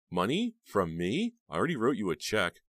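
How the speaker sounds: high, loud disbelief; high indignant disbelief; indignant surprise. A narrator's reading. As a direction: balk at the demand. Heather indignant at demand.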